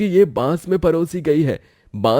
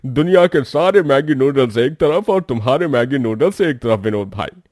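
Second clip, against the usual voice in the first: excited praise; 5 semitones lower, 10 dB louder than usual. Acted. Customer raves about noodles.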